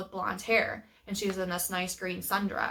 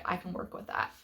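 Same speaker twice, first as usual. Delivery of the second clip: whispering; 6 dB quieter than usual. Retold or imitated. His hopeful inner thought, unvoiced.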